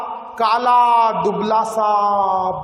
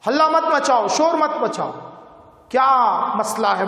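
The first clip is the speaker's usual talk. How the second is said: constable's shout. Acted. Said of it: "चिल्लाकर कहा".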